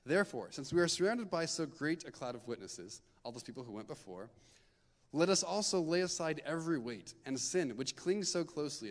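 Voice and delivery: measured, earnest Bible reading; scripture reading. Acted. Youth leader reading scripture to the group, earnest and measured. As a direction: read the verse out to the group. Reads Hebrews passage aloud.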